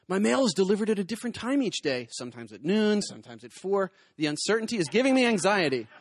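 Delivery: mock-anxious complainer, building to a high peak; hammed-up anxious excuse; anxious patient. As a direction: plead your petty case for a prescription. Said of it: "here's a survey of what I've heard".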